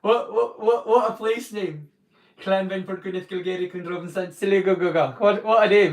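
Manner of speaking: loud, excited what a name; amazed exclaim. Real, not acted. To Daffyd, marvelling at Welsh place names, loud and amazed.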